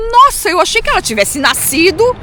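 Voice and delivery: retold amazement, pitched high at first; astonished. Daughter recalling her father's revelation about mother, astonished. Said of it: "eu fiquei pasma".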